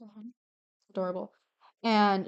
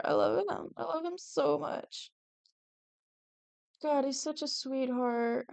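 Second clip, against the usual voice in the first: much higher, fangirl gushing; squealy adoration, higher pitch; 5 semitones higher, 5 dB quieter than usual. Real, not acted. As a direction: gush about him like a fan. Gushing over favourite character.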